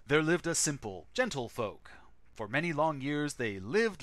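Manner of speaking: dramatic storybook reading; epic fantasy narrator. Shown as a demonstration. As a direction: read it like an epic legend. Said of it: "would anyone care for a dramatic reading of the manual".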